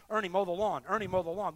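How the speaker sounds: a hint of the Spirit nudging Ernie; gentle urging. Holy Spirit nudging Ernie to mow again, lightly urging. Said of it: "the Holy Spirit is trying to tell me".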